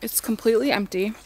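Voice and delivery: talking while chewing gum; words around a wad of gum. Real, not acted. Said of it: "I just put gum in my mouth".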